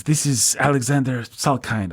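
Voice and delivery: mock a European producer's accent; Alexander Salkind. Slimeball European producer introducing himself by phone, vague foreign accent. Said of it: "I don't know what kind of accent he has".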